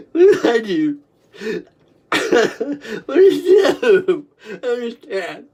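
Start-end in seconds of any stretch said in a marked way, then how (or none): 2.1-4.3 squeezed out through laughter; laugh crying. Real, not acted. Helpless laughter.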